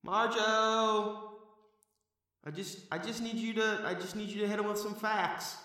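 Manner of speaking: high, soft squeaky basement-dweller voice; Marjo voice. Acted. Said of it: "Appreciate it, Marjo".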